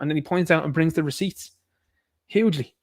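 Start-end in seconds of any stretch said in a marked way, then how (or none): 2.3-2.7 mock Trump boast, stretched and loud at the end; Trump impression. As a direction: ham up a Trump voice on hugely. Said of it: "That's what the Trump fan says".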